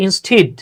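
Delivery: "instead" drawn out as in-steed; the wrong "instead", rhyming with need; habitual mispronunciation. Shown as a demonstration. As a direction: say "instead" with a long ee. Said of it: "আমরা পড়ে আসছি".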